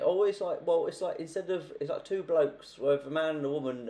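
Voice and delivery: put-on a flustered old man groping for words; flustered husband. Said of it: "he can't really explain it".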